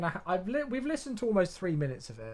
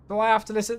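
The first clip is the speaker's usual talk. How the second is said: louder mock despair; 4 semitones higher, 5 dB louder, faster than usual. Real, not acted. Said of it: "one of the worst".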